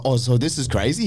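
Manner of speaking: a rising, unsure check that "crazy" is normal; unsure question. Retold or imitated. Ask "so this is crazy?" with a questioning lift on "crazy". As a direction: newcomer on set asking the other actor, unsure rising tone. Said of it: "And I was like".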